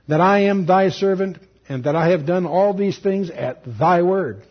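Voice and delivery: slow, solemn public prayer; declaimed prayer. Acted. Elijah praying that the people may know, slow declaimed prayer. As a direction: pray it out deliberately, weighting each phrase.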